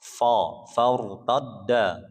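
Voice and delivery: "Fo, faurtadda" slow with a rounded thick o; wrong thick fo. Shown as a demonstration. Teacher demonstrating wrong thick fa to class, thick fo. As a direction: show the mistake of saying "Fo" thick. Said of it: "jangan dibaca fo".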